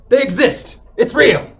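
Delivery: loud, high and thrilled; excited. A narrator's reading. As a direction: blurt it out in wonder. Excited yeti reveal.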